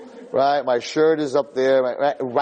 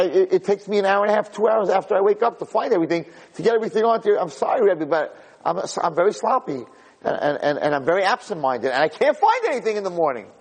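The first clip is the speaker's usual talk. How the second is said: higher, stammering apologetic schoolboy; flustered confession; 6 semitones higher than usual. Acted. Disorganized kid apologizing to his Rebbe, flustered. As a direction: pour out the excuse, pitched up.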